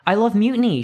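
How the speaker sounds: put-on high, loud child's shriek. A narrator's reading. Little girl at the mutiny parade, joyful shriek. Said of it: "shrieks an eight-year-old".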